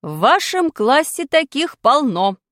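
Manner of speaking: slow, loud curt retort; sharp teacher. Acted. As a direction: snap back at him. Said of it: "резко ответила учительница".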